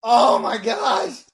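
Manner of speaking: slow, loud, thrilled oh my gosh; excited exclamation. Real, not acted. Fan telling friends about the record, slow amazed exclaim. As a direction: stretch it out in awe.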